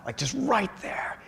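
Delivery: hushed breathless whisper; awed whisper. Retold or imitated. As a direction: whisper it like a secret on the brink. Edge of nirvana, hushed.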